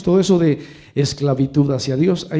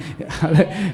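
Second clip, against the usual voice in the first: short laugh; 3 semitones higher than usual. Real, not acted. Preacher laughs at his own aside.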